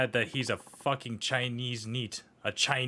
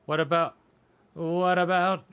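each ask climbing higher and louder until a high plea; rising whine; 6 semitones higher, 5 dB louder than usual. Acted. Left-out kid begging to join the fun, whining higher. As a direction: build from a whine to a high pleading cry.

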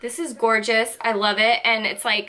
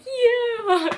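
quoting husband; 12 semitones higher than usual. Retold or imitated. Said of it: "my husband was like".

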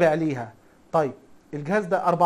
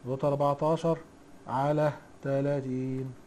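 "على تلاتين" stretched out slowly, softer, for note-taking; slow dictation repeat; 4 semitones lower, 6 dB quieter, slower than usual. Shown as a demonstration. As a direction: spell it out slowly so students can write it down. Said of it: "دوت كام يا حاج؟". (تكرار ببطء للإملاء)

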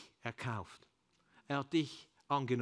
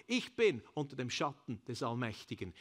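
usual speaking voice

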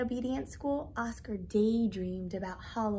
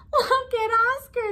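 high, loud jeering call; storybook dogs crying out in mockery; mocking cry; 11 semitones higher, 8 dB louder than usual. A narrator's reading. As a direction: call everyone over to point and laugh. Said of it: "they cried".

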